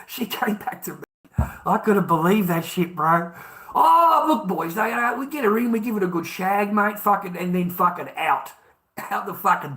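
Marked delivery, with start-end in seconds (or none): 3.8-5.7 sudden high loud "Oh,"; excited burst. Real, not acted. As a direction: break into a boastful whoop. Bragging about the old days.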